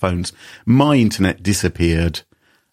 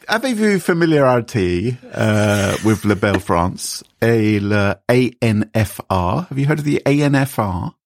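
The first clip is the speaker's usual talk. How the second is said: fake French accent. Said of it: "this fake French the whole way through".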